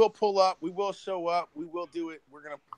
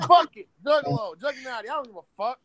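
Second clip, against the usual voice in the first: high-pitched, louder imitation of not caring; mock defiant outburst; 8 semitones higher, 3 dB louder than usual. Voicing the guy riding the ride, mock defiant. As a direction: throw it out high, mock reckless. Voicing rival's reckless attitude.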